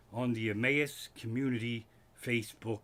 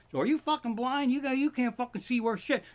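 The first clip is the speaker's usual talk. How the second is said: angry batter; 9 semitones higher than usual. Retold or imitated. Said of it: "he goes".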